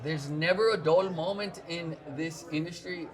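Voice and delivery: shaky attempt at a Scottish accent drifting toward Pakistani. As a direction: put on a Scottish accent and miss slightly. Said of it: "help me with my Scottish accent".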